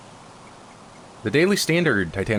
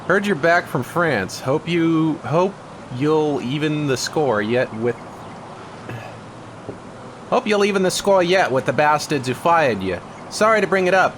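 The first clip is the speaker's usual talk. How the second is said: reading a game letter in a hammed-up, higher English accent; mock English accent; 6 semitones higher than usual. Gamer reading a note aloud, in a mock English accent. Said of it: "That's a terrible accent to use".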